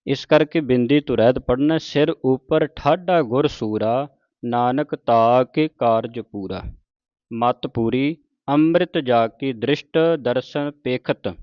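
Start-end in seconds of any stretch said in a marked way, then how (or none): 1.8-11.3 slow, measured Gurbani reading; measured devotional recitation; scripture recitation. Acted. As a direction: recite each phrase deliberately, drawing out the vowels.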